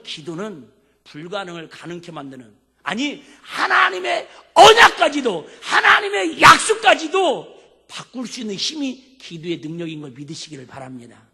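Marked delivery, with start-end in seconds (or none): 2.8-9.2 much higher, louder, slow preaching shout. Real, not acted. Preacher proclaiming prayer can change God's promise, shouting. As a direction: cry it out at the climax.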